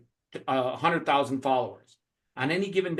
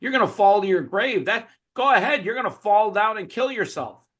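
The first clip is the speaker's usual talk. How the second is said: lightly voiced devil, pitched up; devil taunting; 5 semitones higher than usual. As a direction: goad him with a raised, taunting tone. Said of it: "the devil was telling him".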